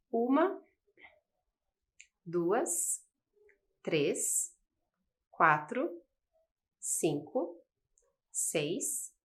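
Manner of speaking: one number at a time with pauses; slow teacher counting; counting aloud. Shown as a demonstration. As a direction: count the letters slowly for the class. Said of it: "quantas letras tem essa palavra?".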